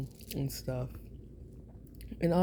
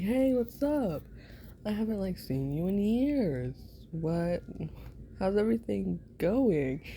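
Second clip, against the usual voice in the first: excited greeting; 5 semitones higher than usual. Pretend. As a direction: greet him brightly after years apart. Greeting friend after years.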